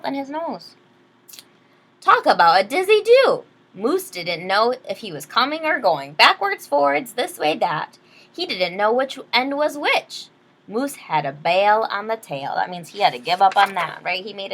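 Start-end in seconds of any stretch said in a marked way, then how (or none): 2.0-12.5 lively read-aloud storyteller; story narration. Acted. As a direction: read it like a bedtime picture book. Reads picture book aloud.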